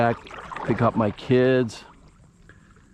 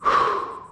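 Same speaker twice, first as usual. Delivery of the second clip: frustrated sigh. Real, not acted. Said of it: "I'm frustrated".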